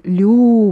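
лю with a soft, palatal L. Shown as a demonstration. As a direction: lean on a softened L in лю.

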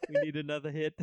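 loud fake accent slipping into Russian; badly faked Russian-sounding accent, amused; botched accent, sounds Russian. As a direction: attempt a Wakandan accent and land on Russian. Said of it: "Now I just sound Russian".

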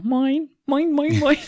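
high, loud squawking seagull "mine". Retold or imitated. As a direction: squawk "mine" like a greedy cartoon gull. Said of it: "the little Nemo".

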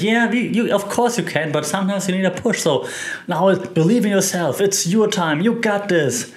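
high-pitched, earnest mock pep talk; encouraging pep talk. Friends' pep talk acted out.

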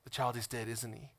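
low, soft question; murmured, knowing grief; David quietly guessing his child has died; quiet realization. Retold or imitated. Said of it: "He said".

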